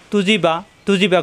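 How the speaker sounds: তু জি বা in three short even vowels; no lingering. Shown as a demonstration. Teacher shows short vowels, তু জি বা undelayed. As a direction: run তু জি বা together without delay. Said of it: "কোনো দেরি করা যাবে না".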